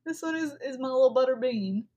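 put-on light Southern accent on butter bean; a lightly put-on Southern accent, like grandma says it. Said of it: "that I say in my southern accent".

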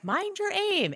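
high mock-gruff jibe; Gimli teasing. Gimli taunting Legolas as he shoots, mock gruff.

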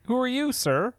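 barker. Acted. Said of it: "the whole carnival barker thing".

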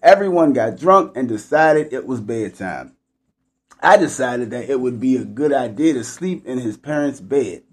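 measured, clearly phrased read-aloud; story read aloud. A narrator's reading. Host reads a story about teens, read-aloud voice.

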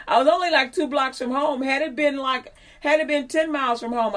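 loud, amused, laughing through the words; laughing while talking. Real, not acted. Telling listeners about walking home, laughing. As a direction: chuckle as you tell it.

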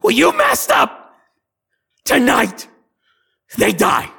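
very high, loud shrieking hag; gloating hag. Acted. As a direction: shriek the threat with glee. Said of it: "looks at you and goes".

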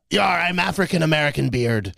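lightly voiced pirate; a hint of hammy pirate; politically correct pirate. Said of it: "a politically correct pirate".

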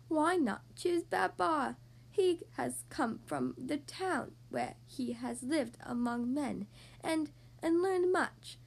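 slow, lightly voiced old elephant; quavering old voice. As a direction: speak slowly like a frail elder. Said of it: "said in his quavering voice".

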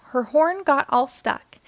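ordinary delivery

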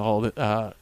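ordinary delivery

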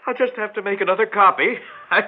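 laughing through the words; shaky laughter breaking in; nervous laughter. Acted.

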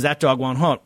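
folksy Texas twang, lightly put on; Southern twang. Bush brushing off the DNC's attack, in a mild Southern twang. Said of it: "this sort of s-, Southern twang".

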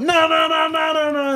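high falsetto refrain. Pretend. Host ends the jingle, high falsetto.

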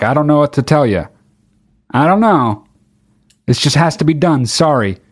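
apologetic. Retold or imitated. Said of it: "most apologetic middle finger".

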